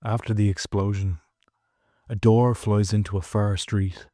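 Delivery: measured poetry reading with long pauses; unhurried recital, pausing after each phrase; poem recitation. Acted. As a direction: read it solemnly, line by line, letting each image hang. Recites the poem opening the podcast.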